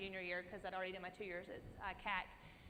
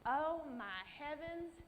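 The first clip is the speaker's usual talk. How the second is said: slow, higher gasp of disbelief; overwhelmed awe; 6 semitones higher, slower than usual. Real, not acted. Remembering the scholarship call, slow awed exclaim. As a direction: let the good news knock the breath out.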